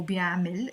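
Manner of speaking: بيعمل ending in -mil; i vowel in the last syllable of بيعمل; alternative pronunciation. Shown as a demonstration. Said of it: "as well".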